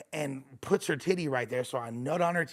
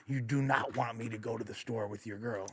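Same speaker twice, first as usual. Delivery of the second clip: hushed warning; 6 semitones lower, 9 dB quieter than usual. Retold or imitated. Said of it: "trying to tell him without telling him".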